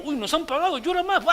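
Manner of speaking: llanto exagerado, más alto y agudo; plañideras fingidas. Acted. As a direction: gritado como plañideras pagadas que se lamentan a propósito. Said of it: "Las personas que se le pagaban para llorar". (plañideras teatrales, agudas y fuertes)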